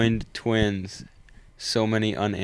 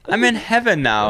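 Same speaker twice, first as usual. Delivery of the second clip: high, louder goofy pet voice; mock dead dog voice; 9 semitones higher, 4 dB louder than usual. Friends mocking the dog voice actor, high goofy voice. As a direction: ham up a dead dog speaking from heaven.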